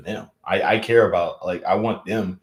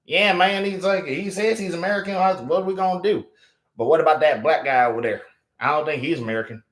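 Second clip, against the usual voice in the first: mock racist dude; 7 semitones higher than usual. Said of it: "they'll just be like".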